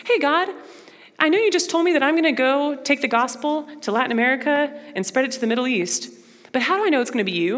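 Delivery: a hint of a doubtful Moses; mock doubting Moses. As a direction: play the unsure servant. Acting out a doubting question to God.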